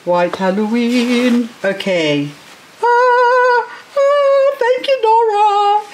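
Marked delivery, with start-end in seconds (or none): 2.8-5.8 excited. Real, not acted. Excited thanks to gift giver.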